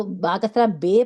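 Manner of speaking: "بے" said with ay instead of ee; wrong majhool vowel. Shown as a demonstration. Teacher pointing out the mistake, kasra read as ay. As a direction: end "با کسرہ بے" on the faulty ay. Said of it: "یہ مجہول کر دیتا ہے".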